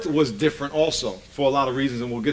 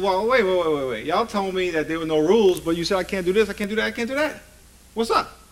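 retold protest, climbing in pitch toward the end; mock bewilderment; 3 semitones higher than usual. Workshop leader challenging kids on their contradiction, mock bewilderment. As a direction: pile up the objections as if baffled.

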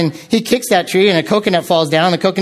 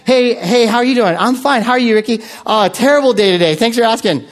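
lightly chirpy greeting exchange, a little raised; mismatched cheerfulness; 3 semitones higher than usual. Retold or imitated. Greeter and student swap hellos, mismatched cheerfulness. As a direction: keep the small talk pleasant whatever the news. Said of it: "do not match my expression".

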